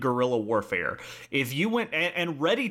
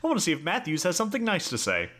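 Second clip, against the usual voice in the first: mock Castro quote; 5 semitones higher than usual. Mock Castro quote, said through laughter.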